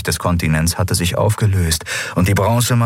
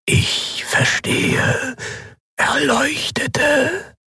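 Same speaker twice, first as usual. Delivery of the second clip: higher, slow, stuttering machine voice that keeps glitching; failing machine voice; much slower than usual. Acted. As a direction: stammer like a broken machine. (stotternde, defekte Maschinenstimme)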